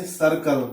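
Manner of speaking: सर्कल begun with an S sound; soft C as S. Shown as a demonstration. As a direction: say सर्कल with C as a hissed S, not K. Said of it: "सी का उच्चारण स होता है".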